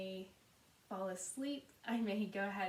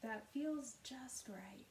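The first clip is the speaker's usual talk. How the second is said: measured, unhurried meditation guidance with long pauses; guided meditation. Acted. Yoga teacher settling listeners into Yoga Nidra, calm guided meditation. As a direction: guide gently, softening at the ends of phrases.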